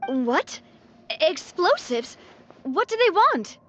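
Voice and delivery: shocked demand for answers; stunned, then pressing hard; alarmed. Acted. Alarmed at explosives news.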